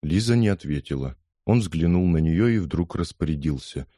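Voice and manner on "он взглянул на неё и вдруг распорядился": ordinary delivery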